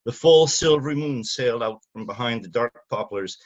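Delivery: even, unhurried reading of his own novel; story narration. Acted. Author reading his novel passage to the audience, measured narration. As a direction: paint the old village gently, like reading to an audience.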